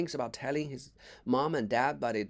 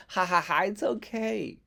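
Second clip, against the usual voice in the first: louder, fake hearty laugh; forced loud laugh; 6 semitones higher, 4 dB louder than usual. A narrator's reading. Jack hiding his hurt from Billy, faking a laugh. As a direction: laugh too hard to hide the pain. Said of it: "laughing extra loudly".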